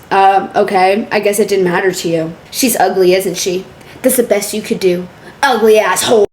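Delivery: low, lightly acted reading; deadpan message readout. Reading a rejected woman's messages aloud, low and deadpan. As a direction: read the insults low and understated.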